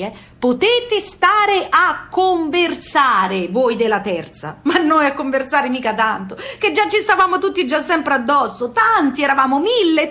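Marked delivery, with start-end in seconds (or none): 0.4-4.6 drawn out like a stiff announcement to the poor; mock official sign. Ship notice to third class, read slowly and mock-pompous. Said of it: "così dicevano i cartelli".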